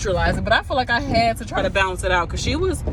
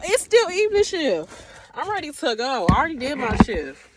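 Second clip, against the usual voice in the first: put-on higher, no-nonsense girl-talk to a coworker; sassy pep talk; 5 semitones higher than usual. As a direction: set her straight with attitude. Sassing the frazzled nurse.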